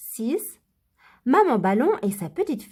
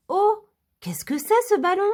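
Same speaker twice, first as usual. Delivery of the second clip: petite voix de Lily; 7 semitones higher than usual. Acted. Petite souris curieuse.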